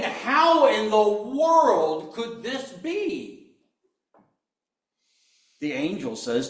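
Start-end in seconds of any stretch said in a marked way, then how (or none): 0.0-3.6 high, loud, stunned disbelief; scared out of their minds. Acted. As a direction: cry it out in frightened wonder. Scared women voiced, sermon.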